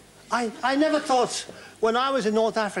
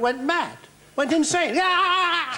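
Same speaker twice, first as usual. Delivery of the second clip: excited; 8 semitones higher, slower than usual. Real, not acted. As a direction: burst out laughing at the memory. Wild laughing climax of anecdote.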